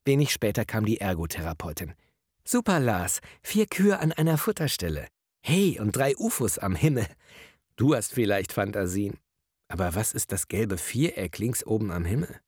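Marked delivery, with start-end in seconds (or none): 2.4-12.4 lightly voiced therapist Karin. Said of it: "noch sympathisch gewesen war".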